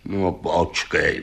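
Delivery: low, slow witch's grumble; grumbling witch. A narrator's reading. Witch chasing the riders on her shovel, grumbling. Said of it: "bručí baba".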